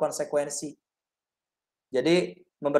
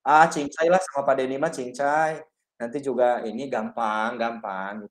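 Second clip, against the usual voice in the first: easygoing buddy teacher; 5 semitones lower than usual. Shown as a demonstration. Teacher acting as the pupil's pal, casual and easygoing. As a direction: shrug it off like a friend. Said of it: "Atau sebagai teman".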